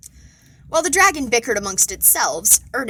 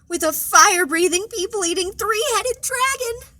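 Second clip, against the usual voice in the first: dramatic reveal; 7 semitones higher than usual. A narrator's reading.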